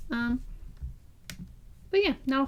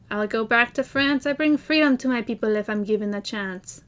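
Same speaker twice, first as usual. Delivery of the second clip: put-on a light, louder French accent; hint of a bad French accent; terrible French accent; 5 dB louder than usual. Lafayette's Yorktown line in a bad French accent. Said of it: "my terrible accent".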